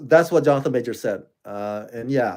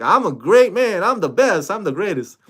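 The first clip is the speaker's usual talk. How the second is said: mock Ali boast; 5 semitones higher than usual. Vlogger imitates Muhammad Ali boasting, mild. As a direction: puff up like a champion bragging. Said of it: "Like Muhammad Ali".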